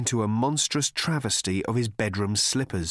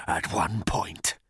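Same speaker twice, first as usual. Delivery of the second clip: hissing; 4 semitones lower, slower than usual. Acted. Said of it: "he hissed".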